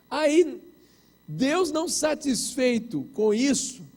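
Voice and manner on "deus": normal talking voice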